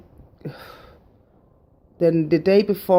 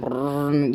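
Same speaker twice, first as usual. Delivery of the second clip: stomach rumble imitation; 2 semitones lower than usual. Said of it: "my belly was going".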